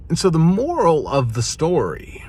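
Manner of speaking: a mock cartoon French accent; a lightly done French accent for the moral; bad French accent. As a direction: put on a clumsy fake French accent. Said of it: "not a very good French accent".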